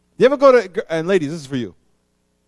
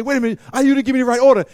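raised, louder mock complaint; a customer protesting the wrong order, pitched up; complaining customer; 7 semitones higher, 7 dB louder, much faster than usual. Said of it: "as soon as you say".

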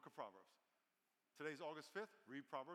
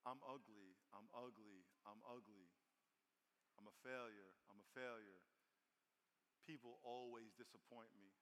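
defeated inner voice; 6 semitones lower, 7 dB quieter than usual. Acted. Pastor voicing a hopeless believer's thoughts, soft and low. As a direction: murmur it like you believe it.

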